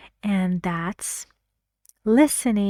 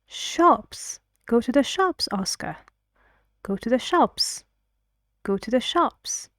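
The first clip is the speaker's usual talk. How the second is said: "shops" lifted up; rising tune; 3 semitones higher than usual. Shown as a demonstration.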